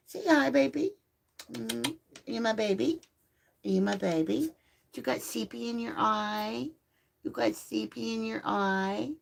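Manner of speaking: high cooing questions to the pup. Real, not acted. Cooing to the puppy.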